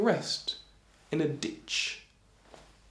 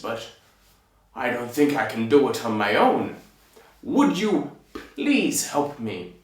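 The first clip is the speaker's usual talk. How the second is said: lightly voiced giant asking a favour; a ponderous giant making a polite plea; giant's new voice. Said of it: "this is his voice now".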